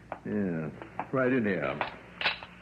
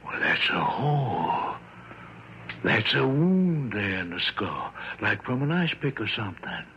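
shocked discovery. Acted. Doctor finds wound under toupee.

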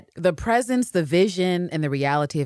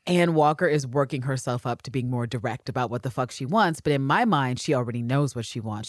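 normal talking voice

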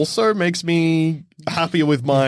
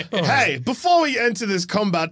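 preachy paladin; 5 semitones higher than usual. Pretend. Paladin boasting before combat.

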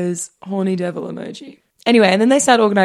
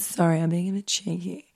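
lightly voiced cheeky date; softer, a hint of a put-on flirt voice; Chris; 6 dB quieter than usual. Reading a date's flirty texts to co-host, teasing voice. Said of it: "stop doing that voice".

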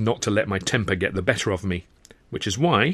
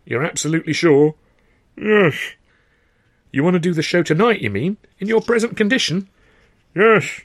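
insistent exchange; 9 semitones higher, 7 dB louder than usual. Acted. Heated back-and-forth.

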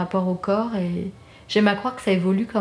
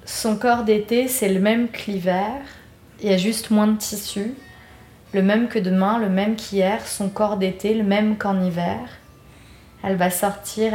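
measured verse reading, phrase by phrase; poem read with lilting line ends; reading lyrics aloud. Real, not acted. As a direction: recite it in short, even lines. Reads her lyrics aloud.

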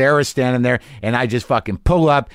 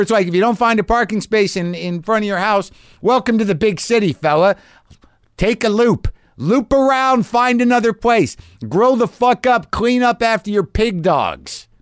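higher, exasperated scolding rant; mock rant at neighbor; 8 semitones higher than usual. Griping at the neighbor about parking, mock scolding rant. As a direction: chew out the neighbor in an imagined tirade.

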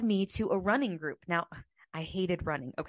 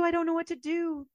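tearful repeat; 9 semitones higher than usual. Retold or imitated. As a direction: still choking on the words, trailing down. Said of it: "showed up at her door crying".

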